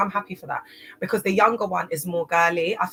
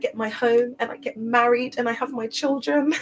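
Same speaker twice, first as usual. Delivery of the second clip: put-on higher, dreamy little-girl voice; imitating little daughter; 4 semitones higher than usual. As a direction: mimic the sweet daughter longing for a home. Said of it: "this is exactly how she talks".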